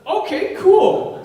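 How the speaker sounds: a high, loud, slow laugh through the words; can't hold back the laughter; laughing okay. Retold or imitated. Laughing while quoting the acceptance.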